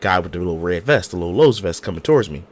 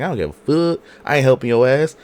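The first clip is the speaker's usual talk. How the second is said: rude dismissal; 5 semitones higher than usual. Retold or imitated. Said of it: "He was like".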